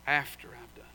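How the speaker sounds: hushed, breathy whisper to close; whispered aside. Real, not acted. Preacher warning the church of chastening, whispered. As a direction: drop to a whisper on the last words.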